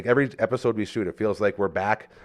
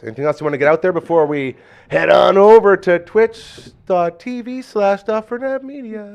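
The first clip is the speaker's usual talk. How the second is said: loud, higher hype announcer voice; 9 semitones higher, 8 dB louder than usual. Acted. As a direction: plug the channel like a promo. Plugging channel announcer style.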